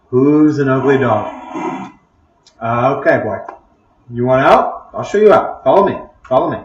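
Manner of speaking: coaxing a dog to follow; mildly soothing animal-handler coaxing. Acted. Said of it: "so soothing voice for that?".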